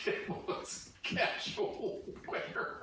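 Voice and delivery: slow, breathy laughing repeat of "Camo as casual wear"; laughing echo. Retold or imitated. Friend repeating a joke line, laughing. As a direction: echo the phrase through a laugh.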